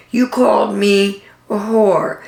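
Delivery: hushed, slow whisper on the insult. Retold or imitated. Recapping Margaret's accusation to viewers, whispered. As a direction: drop to a whisper for the ugly word.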